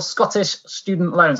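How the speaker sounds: slipping into a Scottish accent; brief unintended Scottish accent. Real, not acted. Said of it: "went into a Scottish accent then".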